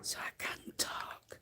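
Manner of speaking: soft unvoiced whisper so nobody wakes; whisper, everyone's asleep. Real, not acted. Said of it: "but I have to whisper".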